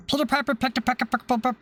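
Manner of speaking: rushed, tripping over pick; fast stumbling tongue twister. Shown as a demonstration. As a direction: rattle it off too fast and trip on pick. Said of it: "I just can't say it quickly".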